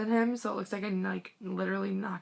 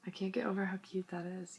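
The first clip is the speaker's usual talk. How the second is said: whisper; 6 dB quieter, faster than usual. Real, not acted. Gushing over photo detail.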